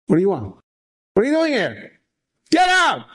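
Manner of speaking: angry Russian neighbor yelling; Russian accent. Acted. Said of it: "he's speaking with a heavy accent, heavy Russian accent".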